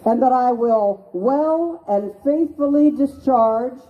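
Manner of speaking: measured, solemn call for repeating; reading an oath aloud. Shown as a demonstration. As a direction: lead the oath line by line. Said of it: "So this is a citizen's oath".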